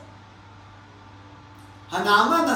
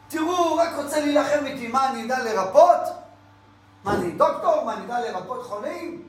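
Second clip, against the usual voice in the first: panicked protest; 4 semitones higher than usual. Acted. Frightened king protests the letter.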